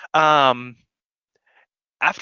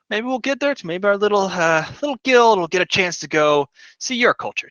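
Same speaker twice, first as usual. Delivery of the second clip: higher, friendly host voice, clapping a shoulder; cheerful guild host; 5 semitones higher than usual. Acted. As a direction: play the jovial welcoming guildmaster. Claps you on the back.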